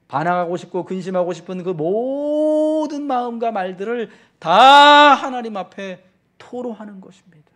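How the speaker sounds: fervent swell from steady to booming; preaching climax. Acted. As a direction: rise to a ringing shout on the last phrase. Preacher climax on pouring out hearts.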